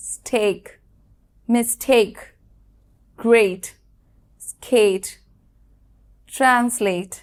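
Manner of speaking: each word said firmly and clearly, some twice; spaced model words with the sound এ picked out; model pronunciations. Shown as a demonstration. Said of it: "যেমন".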